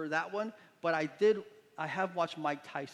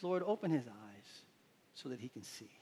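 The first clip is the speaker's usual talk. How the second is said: casual prayer; 4 semitones lower, 5 dB quieter than usual. Retold or imitated. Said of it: "Elisha just kinda casually says".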